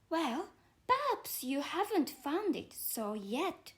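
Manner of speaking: put-on a polite little girl apologising, slow; young Alice explaining herself to the caterpillar, lightly voiced. Alice answers.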